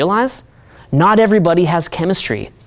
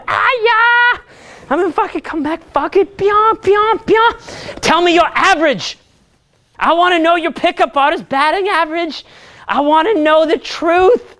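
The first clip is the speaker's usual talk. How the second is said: much higher, whooping mock gamer with pyong sound effects; mocking a hyped gamer; 8 semitones higher than usual. Coach mocking a gamer student demanding his batting average, high and hyped. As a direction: play the overexcited nerd zapping his game. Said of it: "some guys will respond, they'll say".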